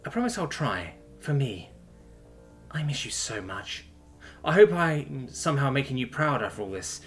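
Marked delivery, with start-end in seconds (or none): 2.7-3.9 slow, softer, aching; tender longing. Acted. Daughter telling her lost dad she misses him, tender. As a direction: let the longing drag the words out. Grieving her father aloud.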